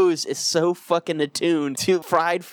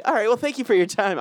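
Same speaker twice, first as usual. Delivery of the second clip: depressed sign-off; 5 semitones higher than usual. Retold or imitated. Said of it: "but he said it as, like".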